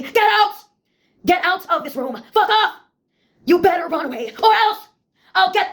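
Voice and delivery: mock angry mother shout; mother yelling. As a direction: yell like a mother throwing you out.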